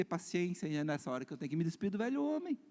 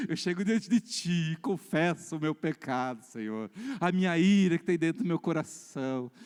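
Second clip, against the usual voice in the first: mock confession prayer. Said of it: "aí de novo".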